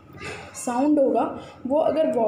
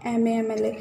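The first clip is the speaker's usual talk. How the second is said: slow drill reading; slower than usual. Shown as a demonstration. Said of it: "सबसे पहले अवर".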